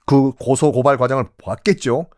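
normal talking voice

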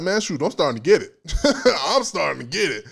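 doubtful, laughing tone. Shown as a demonstration. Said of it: "you see the tone even changes".

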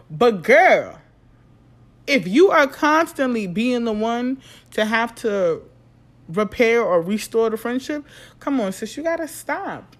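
loud and high, fed-up advice; exasperated scolding. Real, not acted. Telling Issa to stop chasing Molly, loud exasperated scolding. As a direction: shout sense into a friend.

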